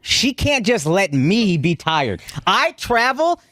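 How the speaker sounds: slow, drawn-out weary complaint; slow tired grumble. Real, not acted. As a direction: drag it out like you're worn down. Husband complaining.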